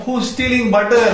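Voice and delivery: high-pitched acted outcry; crying out. Gopakumar overcome with emotion, crying out. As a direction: call it out high, carried away. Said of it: "Again he is crying".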